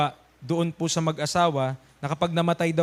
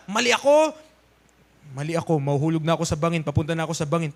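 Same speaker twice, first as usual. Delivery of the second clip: lower, fast, panicky self-talk; a hint of a frightened sinner; 3 semitones lower, faster than usual. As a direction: blurt it as a scared sinner. Voiced sinner realizing fall. (bahagyang takot na makasalanan)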